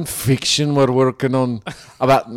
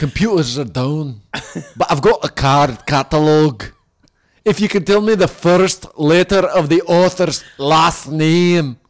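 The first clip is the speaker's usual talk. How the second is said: put-on Scottish-accented voice; 3 semitones higher than usual. Role playing a librarian in an old library: Scottish librarian accent. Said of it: "a Scottish librarian".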